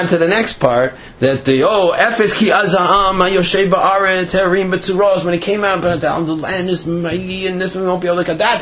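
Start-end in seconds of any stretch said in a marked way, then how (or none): 1.6-8.6 emphatic, raised-pitch declaiming; rapid-fire, higher-pitched mock alarm, only a little louder; very loudly. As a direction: proclaim the bad news insistently. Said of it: "they said very loudly".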